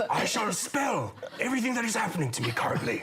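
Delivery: fast, breathless, laughing as if fleeing a lion; panicked dash while spelling; David Attenborough being chased. Pretend. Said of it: "impression ... is David Attenborough being chased".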